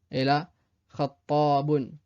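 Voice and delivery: khattabun avec le tt tenu; khattabun, doubler le t; doubled t. Shown as a demonstration. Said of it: "la même chose avec d'autres mots". (khattabun, t double appuyé)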